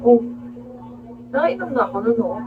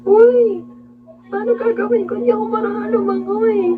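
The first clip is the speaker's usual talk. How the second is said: much higher, loud, close to crying; tearful panicked plea; panicked near tears; 11 semitones higher, 6 dB louder than usual. Retold or imitated. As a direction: wail it like you can't swim and you're scared. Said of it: "para na akong iiyak nun".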